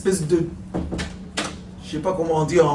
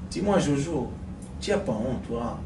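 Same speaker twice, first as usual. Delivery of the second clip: sulky wife; 6 semitones lower, 10 dB quieter than usual. Acted. Wife scolds Jojo.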